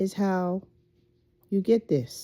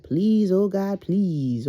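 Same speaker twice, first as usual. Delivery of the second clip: mock pleading prayer; 4 dB louder, slower than usual. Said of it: "that yearning feeling".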